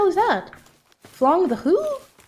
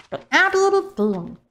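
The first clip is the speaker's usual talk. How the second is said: playful much higher take of the name; silly high take; 7 semitones higher than usual. Pretend. Streamer playfully rereading a donor name, much higher. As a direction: toss it up high for fun.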